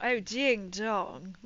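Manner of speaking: very slow, stretched "ding dong"; drawn-out ding dong. Shown as a demonstration. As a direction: draw out both words playfully. Playful repeat of her catchphrase.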